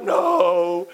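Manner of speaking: drawn-out mock groan of refusal; long, put-on dad's protest; refusing father. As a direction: imitate a stubborn sleepy dad.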